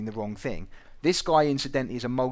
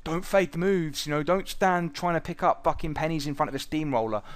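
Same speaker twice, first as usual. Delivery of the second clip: "Don't fade the moves" said higher with a touch of mockery on "fade"; mocking quote; 5 semitones higher than usual. Mocking what Twitter traders keep telling everyone, a mild sneer. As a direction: lightly mimic the Twitter know-it-alls, "fade" stressed. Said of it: "every turd's on Twitter saying".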